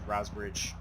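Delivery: quiet repeat. Real, not acted. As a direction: repeat it quietly, under the breath. Repeats location.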